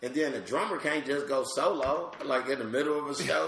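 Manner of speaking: high, loud animated rant; excited griping; worked up. Real, not acted. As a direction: build the frustration about bandmates. Comic rant about bands.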